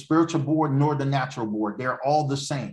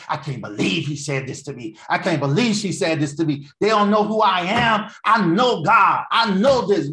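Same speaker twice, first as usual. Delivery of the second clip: indignant rant building from usual voice to loud, high protest; acted anger; 6 semitones higher, 6 dB louder than usual. Preacher acting out the angry fleshly mind, indignant. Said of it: "So now I'm angry".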